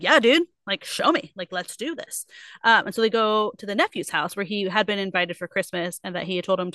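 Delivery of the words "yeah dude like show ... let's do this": stoked. Retold or imitated. Scrooge urges the ghost on, mock stoked. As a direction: play Scrooge pumped up, then settle. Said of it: "he's, like, stoked".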